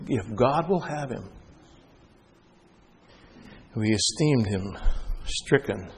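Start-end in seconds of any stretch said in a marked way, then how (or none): 0.1-1.3 slow, soft, sorrowful repeat; grieved echo. Acted. Preacher repeating the taunt, heartbroken and soft. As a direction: say it again with a broken heart. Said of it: "Breaks my heart".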